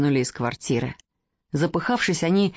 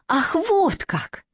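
mild cry; 10 semitones higher, much slower than usual. Acted. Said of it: "закричала девушка".

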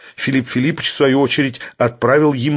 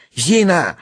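higher, mildly panicky call; frightened yell; 6 semitones higher than usual. A narrator's reading. Sharikov calls the maid in fear, frightened cry. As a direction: call "Зина" with a touch of fright. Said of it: "орал испуганный Шариков".

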